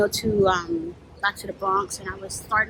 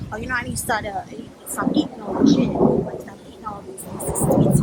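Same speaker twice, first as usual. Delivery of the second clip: imitated Southern grandma, half-voiced; Southern accent. Grandmother says she must stop eating sweets, imitated Southern accent. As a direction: put on a hushed, airy Southern accent. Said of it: "in her Southern accent".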